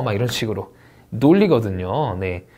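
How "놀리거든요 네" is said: normal talking voice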